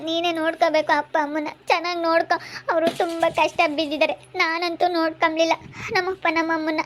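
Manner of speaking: pleading through tears; acted crying, words still clear; tearful. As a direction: beg them, close to sobbing. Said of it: "ಸುಮ್ಕಿರು, ಅಳ್ಬೇಡ".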